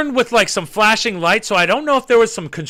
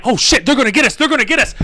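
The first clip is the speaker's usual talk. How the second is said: higher, rising alarm; retold freak-out; 4 semitones higher, faster than usual. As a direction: re-enact your own panicked thought. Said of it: "I'm freaking out".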